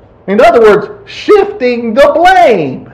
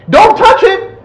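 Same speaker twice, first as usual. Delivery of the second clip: 投げつけるような引用; 11 semitones higher than usual. Acted. Acts out Eve adding words.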